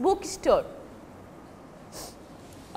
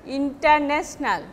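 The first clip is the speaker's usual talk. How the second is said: international said the everyday Benglish way, evenly weighted; Benglish pronunciation; 2 semitones lower than usual. Shown as a demonstration. Teacher showing students the Benglish international, Bengali-accented. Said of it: "in our Benglish way".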